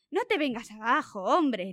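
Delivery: a mild encouraging shout; half-shouted pep talk to a friend. Acted. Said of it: "le gritó Dan".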